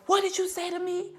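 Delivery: high-pitched mock outrage; imitated indignant challenge. Confronts man who insulted him.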